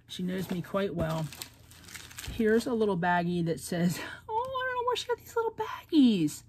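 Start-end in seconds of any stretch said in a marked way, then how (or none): 4.3-6.4 much higher, gushing and quick; delighted squeal. Real, not acted. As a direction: squeal over the cute baggies. Delighted by little gift baggies.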